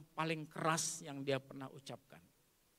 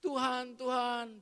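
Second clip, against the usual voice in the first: raised, drawn-out call to God; 5 semitones higher, slower than usual. Acted. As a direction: call on the Lord with lengthened vowels. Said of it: "Engkau berseru". (berseru memanggil Tuhan)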